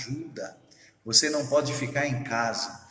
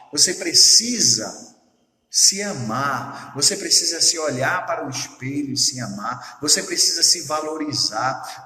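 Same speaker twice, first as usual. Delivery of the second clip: louder, swelling sermon push; preaching climax; 6 dB louder than usual. Acted. Pastor urging the congregation to love themselves, louder and swelling. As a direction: drive the words home to the congregation.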